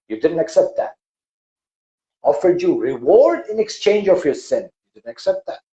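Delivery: God scolding the people who stay; aggressive thundering God. Acted. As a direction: boom it down like thunder. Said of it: "the God's voice comes out very aggressively, like a thunder".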